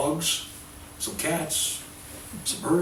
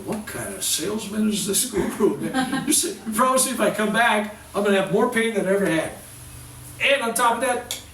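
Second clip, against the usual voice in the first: higher, louder, fast, laughing disbelief; indignant protest; 7 semitones higher, 4 dB louder than usual. Retold or imitated. Healer retells protesting the guru's bad bargain, loud and fast. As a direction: complain like a cheated customer. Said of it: "And I'm going".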